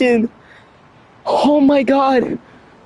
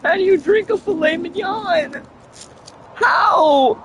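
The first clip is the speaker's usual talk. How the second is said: higher, pleading exasperation; exasperated; 5 semitones higher than usual. Real, not acted. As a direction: beg the question in disbelief. Exasperated at garbled sentence.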